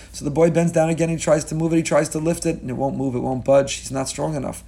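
usual speaking voice

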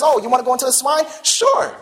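breezy acted-out consent; casual agreement. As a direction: toss it off as an obliging imitation, pitch leaping up at the end. Acting Jesus casually granting demons' request.

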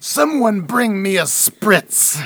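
slow Southern drawl. Acted. Podcaster continuing the Southern belle bit. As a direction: ask languidly in a drawl. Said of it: "it's Southern people".

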